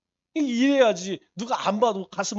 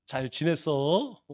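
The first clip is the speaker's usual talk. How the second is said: slow, stretched, lower Chungcheong greeting; Chungcheong drawl; 6 semitones lower, 4 dB quieter, much slower than usual. Shown as a demonstration. Pastor demonstrating the Chungcheong greeting to the church, drawn-out dialect. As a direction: draw every syllable out like a Chungcheong local. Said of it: "이렇게 늘려주는 게 인지상정이요".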